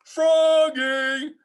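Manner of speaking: high called name; dad calling out. A narrator's reading. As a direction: call across the house. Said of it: "called his father".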